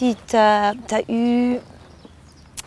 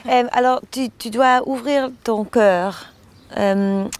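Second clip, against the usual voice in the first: foreign accent in French. Real, not acted. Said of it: "pardon, mon français".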